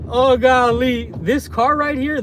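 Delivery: high-pitched, drawn-out amazement; real excited surprise; amazed. Real, not acted. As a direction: marvel at what you have found. Points out wife's car.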